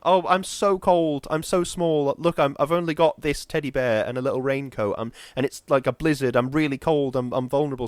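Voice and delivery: vampire girl faking vulnerability, lightly voiced; pitiful little girl. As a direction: play small and helpless. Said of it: "she's like".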